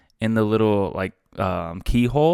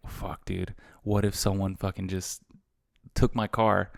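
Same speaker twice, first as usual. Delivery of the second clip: anxious muttering; 7 dB quieter than usual. Retold or imitated. Fearing car stolen.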